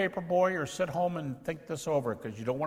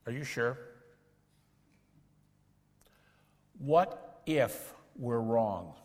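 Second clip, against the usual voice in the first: slow, worried what-if; a hint of an anxious questioner; anxious doubter; 3 semitones lower, slower than usual. Shown as a demonstration. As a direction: drag it out like a nervous doubter. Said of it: "Emotional doubter".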